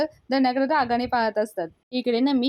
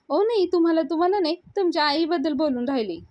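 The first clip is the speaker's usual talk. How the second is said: flustered correction; 6 semitones higher than usual. Retold or imitated. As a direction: quickly explain you didn't mean her. Payal hastily corrects misunderstanding. (गडबडीत, उंच आवाजात खुलासा)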